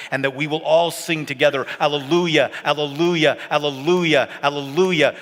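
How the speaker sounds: exultant preaching crescendo. Real, not acted. Preacher picturing the church singing together, exultant and loud. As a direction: build to loud, high, repeated alleluias.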